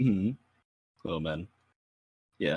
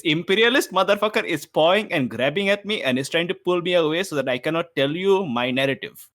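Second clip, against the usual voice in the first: raised, slowed, loud protest in character; indignant character rant; 6 semitones higher, 3 dB louder than usual. Acted. Character protests being grabbed by a rival, loudly indignant. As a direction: declaim it like a wronged hero.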